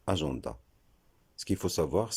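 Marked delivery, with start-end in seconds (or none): 0.1-0.6 "agenda" with middle nasal AN, a-zhan-da as in French gens; habitual pronunciation. Shown as a demonstration. Teacher showing the habitual form, pronounced with nasal AN. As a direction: say "agenda" as aʒɑ̃da. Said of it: "On a pris l'habitude de prononcer".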